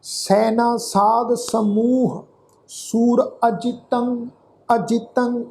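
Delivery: slow, measured Gurbani recitation; scripture recitation. Shown as a demonstration. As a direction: draw out each word of the verse, evenly paced. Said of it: "ਇਸ ਦਾ ਪਾਠ ਰਲ ਮਿਲ ਕੇ ਉਚਾਰਨ". (ਹੌਲੀ, ਠਹਿਰ ਕੇ ਗੁਰਬਾਣੀ ਪਾਠ)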